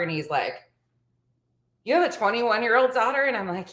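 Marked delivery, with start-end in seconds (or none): 1.8-3.2 higher-pitched imitated incredulity; disbelieving echo. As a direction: question it as if you can't believe it. His disbelieving echo of her answer.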